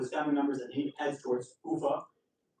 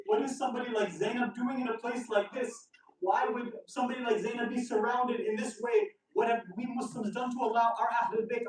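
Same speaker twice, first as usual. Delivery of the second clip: higher, pressing disbelief in a retold lament; anguished lament; 5 semitones higher than usual. The speaker grieving over Zainab's plight, retold anguish. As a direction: plead through each question, voice raised in pitch.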